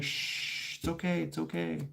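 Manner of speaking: hushed, falsely soothing reassurance; retold hushing. Intruder hushing a screaming child.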